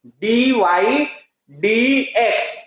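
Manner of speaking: "डीवाई" drawn out, a pause, then "डीएक्स"; very slow "डीवाई ... डीएक्स" with a gap and no "by"; slow spelled-out reading. Shown as a demonstration. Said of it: "by नहीं लगाना हो". (रुक-रुक कर धीरे से: "डीवाई ... डीएक्स")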